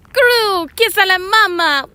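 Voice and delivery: high mock minion mom with a whimper. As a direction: squeak it out like a minion playing mom. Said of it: "Kevin had to literally dress up as a mom".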